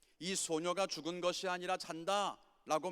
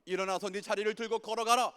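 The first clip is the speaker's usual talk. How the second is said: rising commands; 3 semitones higher, 5 dB louder than usual. Retold or imitated. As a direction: build each call until it thunders. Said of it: "그렇게 말씀하시는 거예요". (청년부에게 점점 커지는 하나님의 명령)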